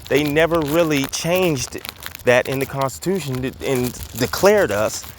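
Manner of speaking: slightly winded while walking; out of breath. Real, not acted. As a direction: talk while walking briskly. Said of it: "I sound like I'm out of breath".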